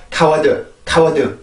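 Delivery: 카워드 in even Korean syllables with a full final 드; Korean-style 카워드, each syllable sounded out; wrong pronunciation demo. Shown as a demonstration. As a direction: say 카워드 flatly syllable by syllable, no scraped k. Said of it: "이런 게 아니라".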